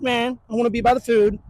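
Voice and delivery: lightly voiced pouting dog, whiny; sulky dog voice. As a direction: give the dog's sulky inner voice. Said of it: "He goes".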